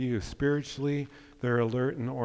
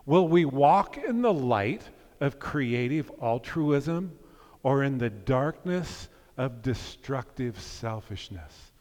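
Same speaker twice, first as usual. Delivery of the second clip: quoting King; slower than usual. Shown as a demonstration. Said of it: "I'll put it on the screen".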